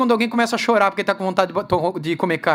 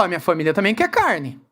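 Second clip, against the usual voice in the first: low start, whiny swoop on the last words; mock tearful complaint; 7 semitones lower than usual. Another father joins the complaint to the leader, mock tearful. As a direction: imitate another father bleating his complaint. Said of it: "chega pra você e chorando".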